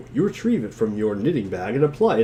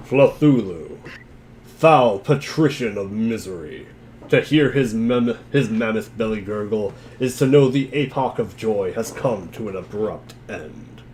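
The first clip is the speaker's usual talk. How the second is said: grand monster lore reading; 2 semitones lower than usual. Acted. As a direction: proclaim it like ancient forbidden lore.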